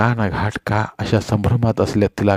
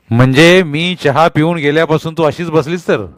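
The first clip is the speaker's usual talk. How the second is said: angry accusation; 5 semitones higher than usual. A narrator's reading. Husband accusing his wife of sitting idle, angry. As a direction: accuse her scornfully.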